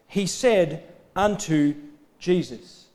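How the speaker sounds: "He said unto Jesus" slowly, word by word; emphatic slow delivery. Real, not acted. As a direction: weigh each word of "He said unto Jesus", pausing before "Jesus". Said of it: "we need to emphasise that".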